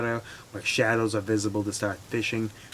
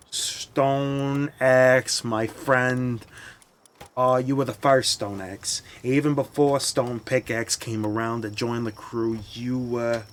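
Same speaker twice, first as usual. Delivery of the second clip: mock eulogy. Mock eulogy for stone axe.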